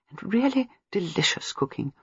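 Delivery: soft whispered aside; whispering. Acted. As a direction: drop to a whisper.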